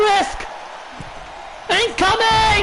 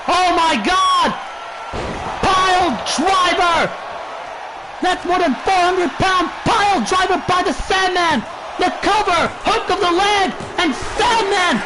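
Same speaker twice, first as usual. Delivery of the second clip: excited; 3 semitones higher than usual. Acted. Huge move in the match.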